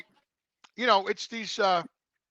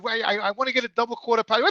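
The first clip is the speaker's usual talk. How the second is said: fast exasperated order; 5 semitones higher, faster than usual. Retold or imitated. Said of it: "I said".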